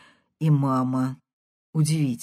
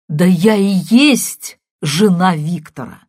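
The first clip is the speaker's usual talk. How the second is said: insistent caller; 8 dB louder than usual. Acted.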